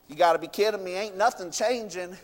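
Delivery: low, soft, disgruntled aside; quietly fed-up, dropping away at the end; Naaman grumbling. Retold or imitated. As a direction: grumble it to yourself, unimpressed. Acts Naaman grumbling after first dip.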